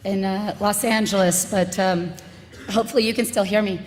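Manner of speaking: hoarse from yelling at protests; worn, raspy voice after shouting. Real, not acted. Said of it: "my voice is raspy".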